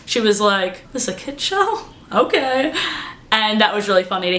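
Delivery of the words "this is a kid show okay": mock surprise. Retold actress's surprise.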